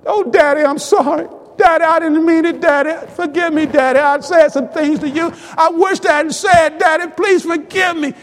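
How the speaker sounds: urgent, insistent pleading, lightly acted; pleading son. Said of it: "they begin to cry and talk to one another".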